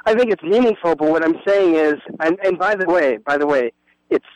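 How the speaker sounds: garbled phone line; muffled, bubbling phone audio; underwater. Real, not acted. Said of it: "it sounds like you're underwater".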